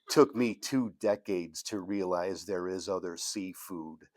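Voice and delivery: measured, even poem recital; poetry reading. Acted. Poet reading a seventies kitchenette poem to an audience, poetry reading. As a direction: read it phrase by phrase, landing each image. Reads own poem aloud.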